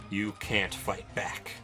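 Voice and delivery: usual speaking voice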